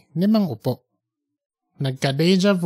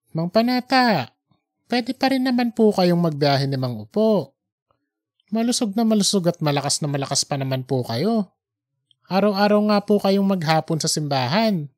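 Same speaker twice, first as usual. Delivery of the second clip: put-on encouraging young man; 2 semitones higher than usual. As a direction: cheer up the old man. Junjun encourages the old man. (masiglang binata, nagpapalakas ng loob)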